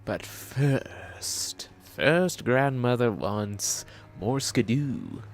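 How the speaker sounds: put-on slow old lady voice; grandma voice. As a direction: drag it out like a granny. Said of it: "My grandmother voice is going to need work".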